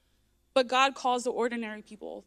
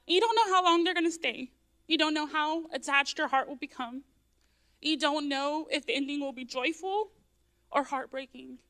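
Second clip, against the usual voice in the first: higher, voice straining with real emotion; fighting tears; 3 semitones higher than usual. Real, not acted. Telling the congregation about foster children, fighting real tears. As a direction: push on through held-back tears. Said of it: "Sorry, I'm gonna cry".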